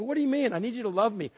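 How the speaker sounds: high-pitched, acted bewilderment; comically confused husband; baffled exasperation. Acts out baffled reply to wife.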